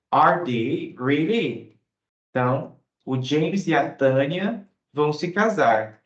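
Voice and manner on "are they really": slow, drawn "Are they really?"; surprised. Shown as a demonstration. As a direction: sound truly amazed. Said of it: "expressando surpresa e interesse". (surpresa, bem devagar)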